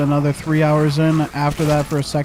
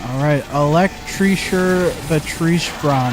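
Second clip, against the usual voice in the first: put-on French accent; slower than usual. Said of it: "gotta love that French".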